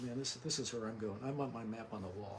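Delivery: quiet, under-projected speech; real mumbling. Real, not acted. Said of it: "speak up just a little bit".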